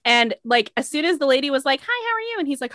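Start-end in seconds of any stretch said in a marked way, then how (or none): 1.8-2.4 drive-thru worker voice. Retold or imitated. Drive-thru lady voiced, high.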